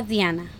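Diana said as dee-AH-na; "Diana" with a Spanish ee in the first syllable; original pronunciation. Shown as a demonstration. Host giving her birth name, Spanish pronunciation of Diana. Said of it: "I was born".

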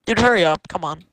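impatient, pushing a friend along; hurrying someone. Real, not acted. Friend waiting in game.

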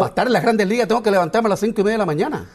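high, quick teasing echo of his answer; mock echo. Host jokingly echoing the pitcher's early wake-up, high and fast.

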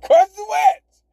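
a hint of a North Dakota twang; mock North Dakota accent. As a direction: say "Carson Wentz" like a North Dakota local, in fun. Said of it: "That's how they say it out there in North Dakota".

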